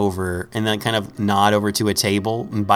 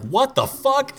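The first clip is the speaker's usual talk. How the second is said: mock shock; 14 semitones higher, slower than usual. Mugger startled by wings.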